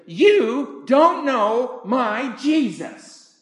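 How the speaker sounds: put-on high, slow indignant girl's voice; a teen girl voiced by the preacher, high and slow; teenage girl. Girl scolding the preacher about Jesus, high indignant voice.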